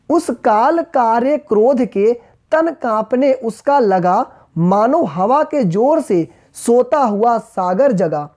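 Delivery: slow, deliberate verse reading; slow recital in measured phrases; poem recitation. Acted. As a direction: stretch each word of the verse. Reads poem lines aloud.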